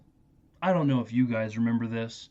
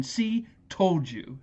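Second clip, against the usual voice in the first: put-on a lightly higher smug little boy; smug kid; 5 semitones higher, much slower than usual. The grandson gloats to Grandpa, lightly higher smug kid. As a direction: gloat like a kid proven right. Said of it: "you hear Fred Savage chime in".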